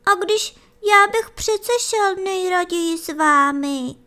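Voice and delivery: put-on high, small child's begging voice; pleading. Little hare begging his mother to take him along. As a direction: plead with her like a little one. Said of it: "prosil Janeček".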